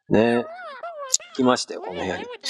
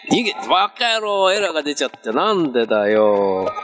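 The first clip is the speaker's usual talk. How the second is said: mock exasperation; 3 semitones higher than usual. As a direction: playfully curse the glitch, stretching the end. Mock rant at an app error. (ふざけて怒った嘆き)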